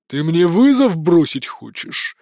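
slow, looming thunder; huge father thundering down at his daughter. A narrator's reading. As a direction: loom over her with every word. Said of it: "гремит главный кошак".

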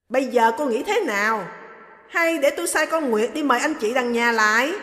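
dismissive orders to the maid; stern mother-in-law. Acted. Mother-in-law ordering the maid away, loud and curt.

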